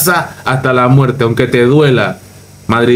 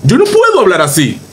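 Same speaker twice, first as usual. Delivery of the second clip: mock newscaster; 5 semitones higher than usual. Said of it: "con ese estilo".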